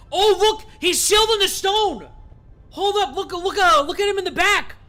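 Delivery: high, loud, amazed skater bro; skater dude voice. Acted. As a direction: yell it out like a stoked skater kid. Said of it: "Karina the skater dude voice".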